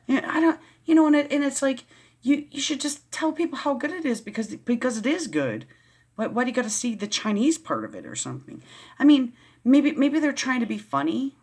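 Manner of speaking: worked-up rant. Real, not acted. Vlogger venting about a commenter's remark, worked-up and high-pitched.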